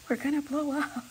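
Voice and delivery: high, crying mock alarm; mock panic. Retelling her fear of the gas, high mock panic. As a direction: wail it in playful fear. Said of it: "I'm like".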